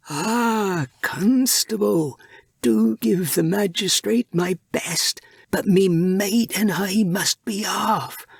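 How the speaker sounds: a sly pirate captain smoothly taking his leave. A narrator's reading. Captain's polite farewell.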